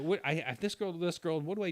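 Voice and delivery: high, rattled plea for advice; flustered pleading. Retold or imitated. Young man begging his brother for advice, flustered and high. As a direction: stammer it out like a lost young guy. Asking brother which girl to choose.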